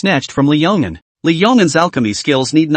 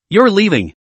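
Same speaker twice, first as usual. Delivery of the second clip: higher, eager disbelief; can't hide the delight; excited; 5 semitones higher than usual. Acted. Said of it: "his heart leapt with excitement".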